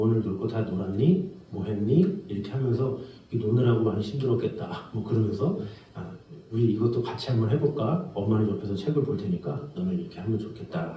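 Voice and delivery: gentle parent. Retold or imitated. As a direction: ease the child into studying. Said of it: "어떤 부모는 뭐".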